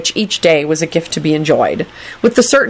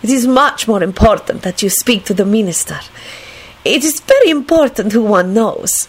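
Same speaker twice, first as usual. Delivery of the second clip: put-on higher, emphatic foreign-accented voice; decisive woman; 5 semitones higher than usual. A narrator's reading. Lady advises the young man, decisive. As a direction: make the point decisively, word by word. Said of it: "she finished decisively".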